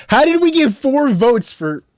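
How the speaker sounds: high, slow laugh through the words; laughing while asking; laughing disbelief. Real, not acted.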